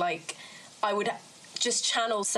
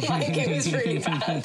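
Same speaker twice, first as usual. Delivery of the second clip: lower-pitched words pushed through laughter; laughing; 5 semitones lower, 3 dB louder than usual. Real, not acted. Guest laughing about her bad Afrikaans, amused emphasis. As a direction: laugh while admitting it.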